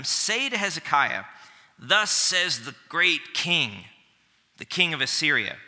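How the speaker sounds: reads the Assyrian envoy's taunt aloud with weight; dramatic Bible reading; scripture reading. Acted. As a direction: proclaim it like a boastful herald.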